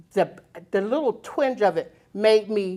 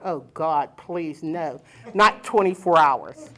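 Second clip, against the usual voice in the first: mock dread; 3 semitones lower, 5 dB louder than usual. Dread at a long labor.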